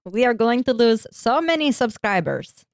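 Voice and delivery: mock Russian accent; bad Russian accent. Host joking about losing subscribers, bad Russian accent. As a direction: lament it in a shoddy Russian accent. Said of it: "doing shitty Russian accent as well".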